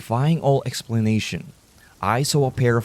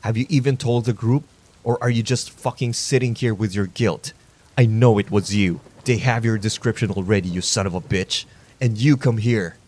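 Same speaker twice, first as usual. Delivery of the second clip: angry. Acted. Vigilante confronting the fat man.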